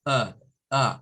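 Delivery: short, low neutral uh; teacher isolating the uh vowel; schwa demo. Shown as a demonstration. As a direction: sound out uh as a schwa. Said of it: "according to the schwa zone".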